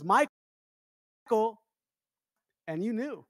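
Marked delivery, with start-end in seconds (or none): 0.0-1.6 mom calling. Retold or imitated. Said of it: "my mom says".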